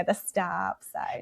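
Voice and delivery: soft, self-mocking Midwestern accent; played-up Midwestern accent. Shown as a demonstration. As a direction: draw out STOP in an Upper Midwest accent. She repeats her mocked accent phrase.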